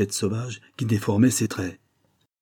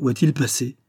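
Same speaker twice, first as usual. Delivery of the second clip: higher-pitched puzzled question; surprised exclamation; 5 semitones higher than usual. Acted. Inspector wondering where Holmes went, exclaiming in surprise. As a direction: ask it in mild surprise. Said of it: "s'écria l'inspecteur".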